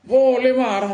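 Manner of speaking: mocking the Habib. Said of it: "Katanya Habib".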